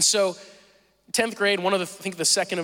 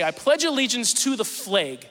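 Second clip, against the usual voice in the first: put-on Northern accent; 3 semitones higher than usual. PA announcer reciting the pledge to a classroom, imitated Northern accent. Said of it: "this person over the speaker system say".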